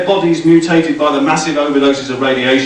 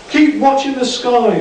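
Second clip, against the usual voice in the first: higher, dramatic film quote; mock ominous warning; 12 semitones higher than usual. A narrator's reading. Michelle to the group, mock ominous film line. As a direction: deliver it like a B-movie tagline.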